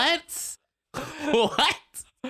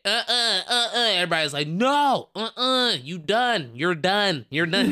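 higher, louder crowd going no; mock crowd rejection; 4 semitones higher, 3 dB louder than usual. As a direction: imitate a whole room shutting him down. Crowd rejecting comic collectively.

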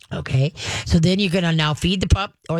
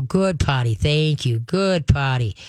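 calm praise; slower than usual. Shown as a demonstration. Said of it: "just very calmly go".

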